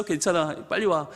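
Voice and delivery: a soft low welcome; God's gentle answer. Retold or imitated. God reassuring the ashamed sinner to come, low and soft.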